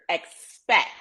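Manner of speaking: "expect" set apart and punched; stress on keyword. Real, not acted. Clarifying the key word to listeners, stressed "expect". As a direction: land firmly on the word "expect". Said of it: "I'm saying keyword".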